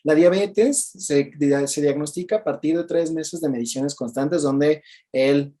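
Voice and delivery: slow, lightly voiced medical explanation; a hint of a stiff textbook doctor; mock doctor lecture. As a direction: spell it out like a dry doctor. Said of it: "no te voy a decir".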